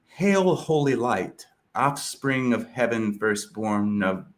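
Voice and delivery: grand epic reading, swelling at the end; reciting Milton. Acted. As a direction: declaim the verse like a bard. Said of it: "and he says".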